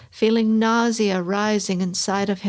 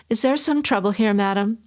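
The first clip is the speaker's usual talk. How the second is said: unctuous. Acted. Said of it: "that unctuous, placating quality".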